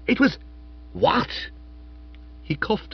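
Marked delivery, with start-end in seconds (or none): 0.1-1.3 high astonished cry; be thunderstruck; shocked. Acted. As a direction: matron stunned by the news, high. Shocked outburst.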